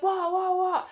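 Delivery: high-pitched, confused imitation; startled waking. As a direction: blurt it as if jolted out of sleep. Friend startled out of sleep.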